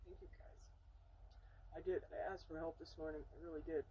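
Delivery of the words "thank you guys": barely voiced grateful aside; very soft, private whisper; whispered thanks. Real, not acted. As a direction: whisper thanks under your breath to unseen guides. Aside of thanks to her guides.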